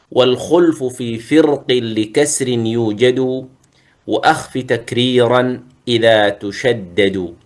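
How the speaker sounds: slow, measured chanting of verse; poem recitation. Acted. Teacher chanting the tajweed poem to students, measured recitation. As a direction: recite the rhyming verse line by line, slowly.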